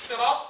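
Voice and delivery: صراط opening on a light, thin s like سراط; light seen at the start of صراط. Shown as a demonstration. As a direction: say صراط with a plain س. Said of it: "صراط دي قراءة صحيحة".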